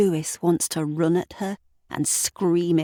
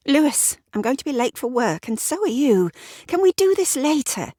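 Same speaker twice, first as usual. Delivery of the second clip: higher, impatient Sarah voice; Sarah voiced higher, irritated; irritated wife; 10 semitones higher, faster than usual. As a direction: snap questions at him, rushed.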